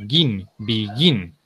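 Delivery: "begin" with the weight falling on "gin"; stress on second syllable. Shown as a demonstration. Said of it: "va en la segunda sílaba".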